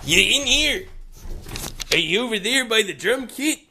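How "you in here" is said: calling out into a dark room; calling from far away. Acted. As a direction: call his name across the room. Searching for a friend, calling.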